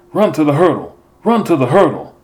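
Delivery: high, loud trackside shout; coach yelling. Acted. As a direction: yell it across the track to a sprinting runner. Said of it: "Mister Paxson started yelling".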